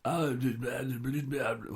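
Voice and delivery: light imitation of his speaking voice; mock talk of a singer. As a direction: breeze through mock babble. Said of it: "you hear him talk".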